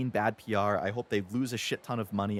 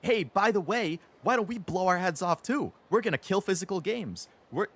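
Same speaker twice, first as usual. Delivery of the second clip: mock breezy Sony; 7 semitones higher than usual. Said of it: "And then Sony is like".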